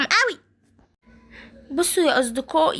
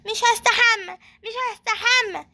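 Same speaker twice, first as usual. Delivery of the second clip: stubborn refusal; 6 semitones higher than usual. Acted. Child refuses the bath.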